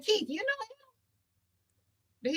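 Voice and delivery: very high, very slow, drawn-out whisper-soft amazement; astonished question. Retold or imitated. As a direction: stretch it out in disbelief. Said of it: "I'm like".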